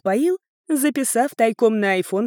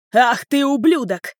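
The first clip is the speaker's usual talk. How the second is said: angry outburst, higher and louder; enraged father lunging at his son; furious; 4 semitones higher, 4 dB louder than usual. Acted. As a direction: spit out the insult. Father attacks son in kitchen.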